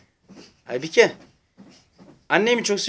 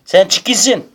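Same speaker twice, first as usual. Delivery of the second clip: laughing tease; 4 semitones higher, 9 dB louder, slower than usual. Real, not acted. Teasing toddler, laughing.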